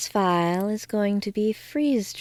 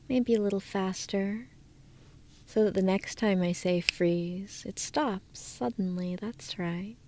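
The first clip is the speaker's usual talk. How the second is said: hypnotic induction. Acted. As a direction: lull the listener down into trance.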